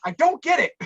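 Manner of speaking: exasperated confusion; baffled frustration. Retold or imitated. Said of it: "and I'm like".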